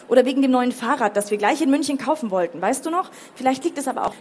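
mildly heated, rising reproach; reproachful teenager. Acted. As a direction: throw old promises back at a parent. Teenager lists grievances at father.

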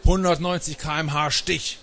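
high, triumphant call. A narrator's reading. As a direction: call out your winning card. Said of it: "und rief".

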